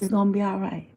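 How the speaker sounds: soft, tender reassurance; retold gentle comfort; comforting father. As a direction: quietly soothe an upset child. Father comforts crying child in story.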